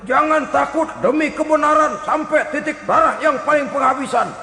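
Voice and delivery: mock battle cry. Bragging fighter before the enemy appears, mock battle cry. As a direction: imitate a loudmouth rousing the troops. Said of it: "teriaknya nyaring bener".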